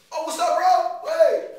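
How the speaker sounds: loud, high, drawn-out hello; overeager greeting. Acted. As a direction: caught debtor playing it friendly. Ducking debtor greets the dealer.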